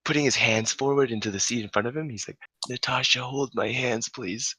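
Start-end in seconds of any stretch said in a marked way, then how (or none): 2.7-4.6 higher-pitched mock pleading; imitated suffering drunk. Sick drunk begs friend in car, high mock plea. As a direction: plead like a drunk with a sore stomach. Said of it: "dying because his stomach hurts".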